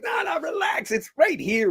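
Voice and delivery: very high-pitched "relax"; retold urgent reassurance. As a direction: call over the panic, voice way up. Acts out himself calming screaming crowd.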